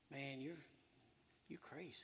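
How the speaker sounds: hushed, whispered taunt; sneaky whispered devil voice; devil's whisper. Retold or imitated. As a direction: whisper it like a tempter. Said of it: "the devil started telling me".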